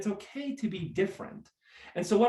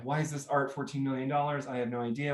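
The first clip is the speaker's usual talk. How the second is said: mock whisper; 5 dB quieter than usual. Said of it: "we're whispering and we're like".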